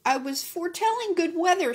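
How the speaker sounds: rooster voice. A narrator's reading. Rooster explaining to the donkey, in a high rooster voice. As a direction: squawk it out like a proud rooster. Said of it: "said the rooster".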